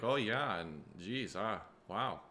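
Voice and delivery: put-on playful Minnesota accent; lightly mocked Minnesota lilt; Minnesotan. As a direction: play a homely Minnesotan. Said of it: "she was like".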